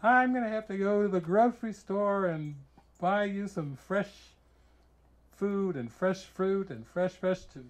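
high-pitched, insistent mock fussing; imitated appalled friend. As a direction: play a scandalized friend taking charge. Acting friend's reaction to old food.

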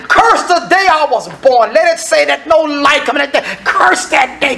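high, anguished outcry; mad at God. Acted. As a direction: cry out in bitter protest, pitched high. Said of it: "When Job is mad at God".

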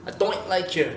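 Scottish oi vowel in don't; Scottish accent. Shown as a demonstration. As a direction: say don't like doint, as a Scot. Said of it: "C'est presque un doing".

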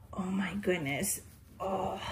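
breathy whispered awe; hushed whisper of delight. Real, not acted. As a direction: whisper it softly. Whispering over sleeping doll.

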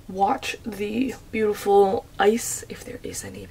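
sleepy whispered voice; hushed and drowsy; groggy morning voice. Real, not acted. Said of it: "morning groggy voice".

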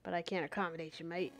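lightly put-on British accent; a touch of British "mate" talk. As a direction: read it as a British bloke, casually. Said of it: "I'm not doing the British accent".

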